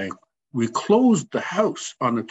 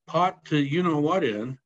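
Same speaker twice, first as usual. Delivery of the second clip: higher, marvelling retold friend; amazed; 6 semitones higher than usual. Friend marvelling to Teddy about his new house, amazed. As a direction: sound amazed at how fast it happened.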